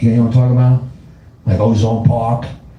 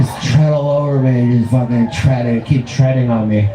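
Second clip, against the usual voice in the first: submissive liberal. Acted. Comic mimicking liberals begging to be trodden on, mildly hammed-up pleading. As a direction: beg for it in mock submission. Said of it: "Liberals are like".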